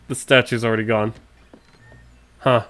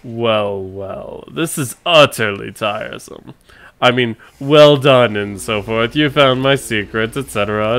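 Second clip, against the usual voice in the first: villain voice. Acted. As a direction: gloat like a theatrical baddie. Voices game villain monologue.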